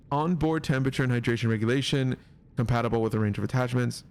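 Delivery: hiccups breaking the reading; hiccuping. Real, not acted. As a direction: read aloud through hiccups. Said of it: "I keep hiccuping".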